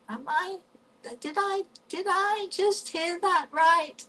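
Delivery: high, incredulous self-question; disbelieving inner thought. Retold or imitated. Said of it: "And I'm thinking".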